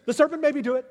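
high, loud mock-defensive excuse; whiny Eve. Eve blaming the serpent, high whiny protest. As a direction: pass the blame in a squeaky whine. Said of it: "And Eve says".

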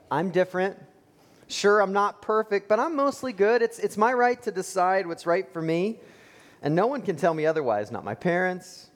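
mock the person sure they're good; smug self-justification.

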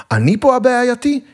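high-pitched indignant yell; indignant outburst. A narrator's reading. Patient's visitor held by guard yelling at the nurse, indignant outburst. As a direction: burst out in protest, voice shooting up. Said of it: "התפרצתי וצעקתי על מוחמד".

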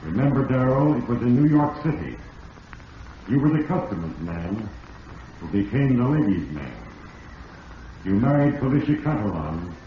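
put-on old radio drama narrator voice; ominous narrator. A narrator's reading. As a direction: speak as Fate itself, measured and grave.

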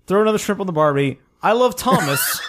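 quick, hammed-up Aussie quote; mock Australian. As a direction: play the cliché Australian bloke, fast. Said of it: "Australian guy here".

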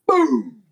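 high, falling boom; imitated gunshot boom. Player narrating the killing rifle shot, imitated boom. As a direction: sound out the gun blast.

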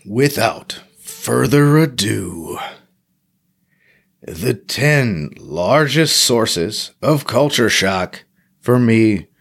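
slow, drawn-out mock announcer. Introducing the podcast's top ten list in a mock announcer voice. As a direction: announce it like a big show intro.

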